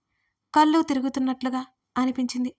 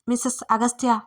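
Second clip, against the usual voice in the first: a different man's voice calling loudly. Acted. David calls the trapped woman through the door, loudly. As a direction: summon her through the door. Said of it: "గట్టిగా పిలిచాడు".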